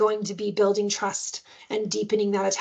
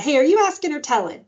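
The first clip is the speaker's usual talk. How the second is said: lilting, higher playful challenge; sing-songy, playful; 5 semitones higher, 4 dB louder, faster than usual. Retold or imitated. Caregiver to a demanding child, playful sing-song. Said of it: "that sing-songy kind of playful voice".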